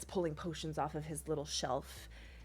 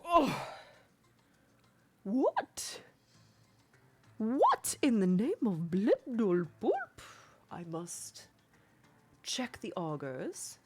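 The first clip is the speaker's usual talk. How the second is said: baffled healer; 3 semitones higher, slower than usual. Acted. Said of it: "The Kuto goes".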